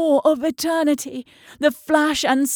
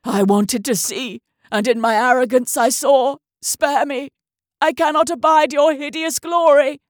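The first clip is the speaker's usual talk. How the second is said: anguished plea; 5 dB louder than usual. Acted. Doctor's anguished confession.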